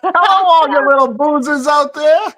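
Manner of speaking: a jokey DJ welcoming the boozers; radio host voice. Pretend. Mock greeting to the boozers.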